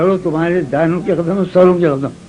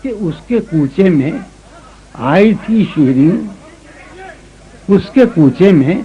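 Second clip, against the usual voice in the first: ghazal recitation. Acted. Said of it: "سنو".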